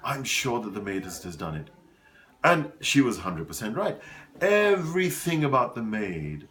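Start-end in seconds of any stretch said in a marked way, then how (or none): 0.0-1.7 softer, confiding, a lightly imitated friend; hushed accusation. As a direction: lean in and quietly point the finger. Friend secretly accusing the maid.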